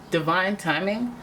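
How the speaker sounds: slow, dreamy, mystical emphasis on divine timing; magical. Shown as a demonstration. Tarot reader savoring the phrase, slow and dreamy. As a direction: linger on it like a spell. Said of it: "doesn't that sound magical?".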